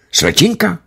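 sly, curious lift; a cheeky hopeful question; perking up. A narrator's reading. The major teasing the nurse about a girl. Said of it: "oživil hned major".

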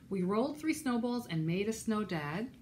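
put-on lively, rhythmic read-aloud for children; animated storytime reading; picture-book narration. A narrator's reading. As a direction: read a rhyming story to little listeners.

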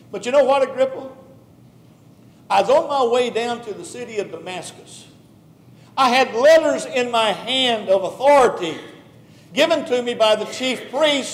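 Paul pleading his case, lightly voiced; Paul speaking. Paul testifying to King Agrippa, earnest preaching voice. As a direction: tell the king your story with fire.

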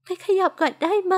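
a hint of a woman choking up mid-sentence, slow and broken; understated tearful stammer, words catching; talking through sobs. A narrator's reading. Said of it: "เธอพูดไปสะอื้นไป".

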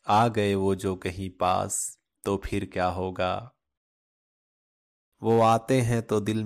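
measured shayari recital with pauses between couplets; poetry recitation. Acted. Sharing great poets' verses on love with listeners, poetry recitation. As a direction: recite each love couplet unhurriedly, line by line.

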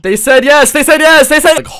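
very high, loud squealing cheer; mock excitement. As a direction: squeal it like a giddy fan.

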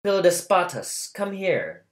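called out high and loud across the house; a widow loudly calling her steward. Acted. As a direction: summon the steward from afar. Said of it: "she turned and called".

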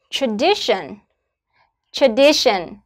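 light tra-, strong DI in "Tradition"; stress on second syllable. Shown as a demonstration. Teacher models word stress for students, DI stressed in "Tradition". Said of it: "Trọng âm rơi vào âm tiết thứ hai".

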